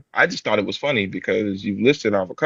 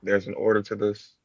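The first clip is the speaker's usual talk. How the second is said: put-on African accent. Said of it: "You really have the African accent".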